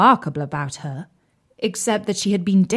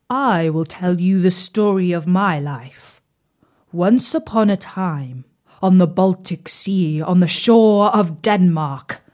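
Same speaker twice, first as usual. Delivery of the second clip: talking stove; 3 dB louder than usual. Acted. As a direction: begin like a proud old stove. Oven begins its tale.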